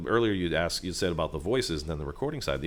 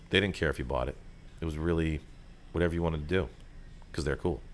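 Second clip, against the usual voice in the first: low, unbothered read that doesn't care if you buy; laid-back cool voice; 4 semitones lower, 4 dB quieter, faster than usual. Shown as a demonstration. Voice actor demoing the nineties cool ad read, low and unbothered. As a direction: toss it off like the cool ad guy. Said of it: "that voice".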